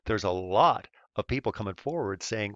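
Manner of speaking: usual speaking voice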